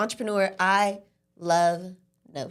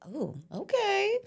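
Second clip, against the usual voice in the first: high drawn-out oh okay; 11 semitones higher, 3 dB quieter, slower than usual. Retold or imitated. Retold hesitant acceptance.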